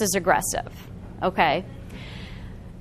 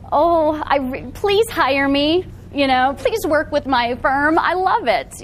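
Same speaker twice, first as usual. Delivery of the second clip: desperate pleading; 3 semitones higher, slower than usual. Shown as a demonstration. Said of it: "What does that look like?".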